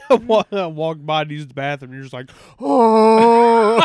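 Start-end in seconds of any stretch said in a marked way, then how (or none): 2.6-3.8 sudden loud startled "Oh"; shocked yelp. Retold or imitated. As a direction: blurt it out in shock. Friend reacting in bathroom.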